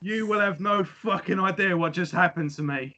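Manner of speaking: barely contain the joy; laughing disbelief. Retold or imitated. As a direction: fan telling family the news, laughing. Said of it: "He's like".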